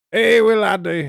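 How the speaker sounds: put-on loud, high pirate accent greeting; hammed-up pirate accent, shouted up high. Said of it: "It's basically a pirate accent".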